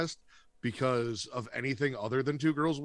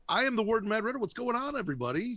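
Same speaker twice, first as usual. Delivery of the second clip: announcer voice; 10 semitones higher than usual. Acted. Host intro in put-on voice.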